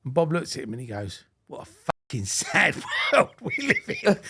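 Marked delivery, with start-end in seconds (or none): 1.5-4.2 high, exclaimed scorn breaking into laughter; mock disgust. Bob reacting to Adam's social media, mock-appalled cry. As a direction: imitate an appalled old hand, half laughing. Bob's scornful punchline, acted.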